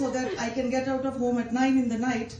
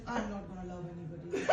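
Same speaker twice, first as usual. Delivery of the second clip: fast, soft, laughing promise; laughing vow; 5 semitones lower, 11 dB quieter, faster than usual. Retold or imitated. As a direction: rush the vow half-laughing.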